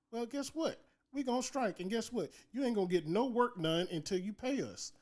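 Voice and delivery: cocky, rising challenge; defiant. Retold or imitated. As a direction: throw the dare at the bosses. Voicing striking workers' defiance.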